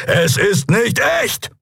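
high, slow encouraging shout; urgent call. Acted. Keru calls encouragement to Endriel, high. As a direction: call it out to reassure her.

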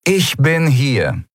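slow, drawn-out commander voice; unhurried commander, falling at the end; deep-voiced commander. A narrator's reading. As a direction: announce your presence slowly, with authority. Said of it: "die tiefe Stimme seiner Kommandantin".

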